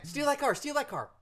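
high-pitched egging-on; pestering kibitzer's repeated order; backseat gamer. Pretend.

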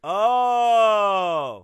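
loud, drawn-out sarcastic "oh". Real, not acted. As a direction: feign being impressed, dripping with sarcasm. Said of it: "you sounded so sarcastic".

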